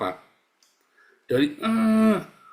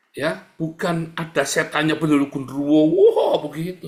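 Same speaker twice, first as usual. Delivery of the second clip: laughing; 3 semitones higher, 7 dB louder than usual. Real, not acted. Laughing off ghost superstition.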